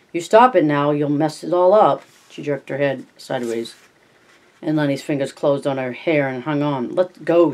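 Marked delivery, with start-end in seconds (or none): 0.1-2.0 loud angry shout. Acted. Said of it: "she cried angrily". 6.9-7.5 loud sharp cry. Acted. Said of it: "she cried".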